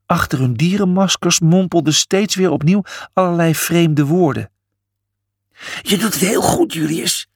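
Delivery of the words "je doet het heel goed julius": high-pitched encouragement; encouraging. A narrator's reading. Cornelius cheering Julius from below the podium, encouraging. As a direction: cheer him on. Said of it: "moedigde Cornelius aan".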